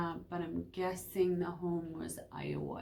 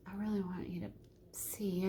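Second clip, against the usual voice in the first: soft unvoiced whisper; 6 dB quieter than usual. Real, not acted. Vlogger quietly telling the viewer she wants them to see. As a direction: drop to a hushed confiding tone.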